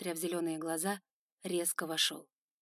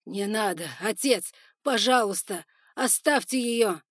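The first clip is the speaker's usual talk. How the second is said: desperate cries; 2 semitones higher, 9 dB louder than usual. Acted. Son begging his father to spare her, desperate cries. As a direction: beg at full voice. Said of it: "отчаянных криков сына".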